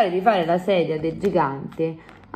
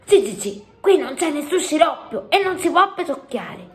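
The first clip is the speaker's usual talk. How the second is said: higher-pitched, emphatic scolding; stern; 9 semitones higher than usual. A narrator's reading. Sofia warning the giant at the palace, stern. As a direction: lay down the rule severely. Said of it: "con atteggiamento se-, severo".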